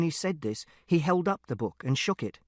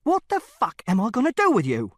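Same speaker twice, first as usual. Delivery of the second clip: angry tirade; 4 semitones higher, 4 dB louder than usual. Acted.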